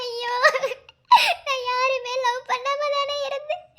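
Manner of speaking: wailing through sobs; sobbing lament; crying. Acted. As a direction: weep over the betrayal. Betrayed woman weeps.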